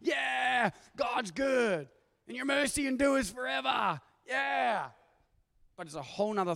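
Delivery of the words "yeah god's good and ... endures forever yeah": higher, bright-spirited cry of praise to God; joyful praise. Retold or imitated. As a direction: shout it up like you just came out of the valley. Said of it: "and I'm like".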